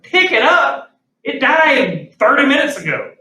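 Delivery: high, loud mock disbelief; incredulous retort. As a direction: throw it back at the boss, acting appalled. Incredulous retort to boss, retold.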